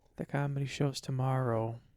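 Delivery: soft, quiet delivery. Retelling what was said on finding it closed: imitating someone speaking quietly. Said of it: "Felicia just said kinda quietly".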